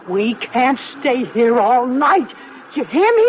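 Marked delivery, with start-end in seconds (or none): 2.8-3.3 shrill demand. Acted. Demanding they leave now.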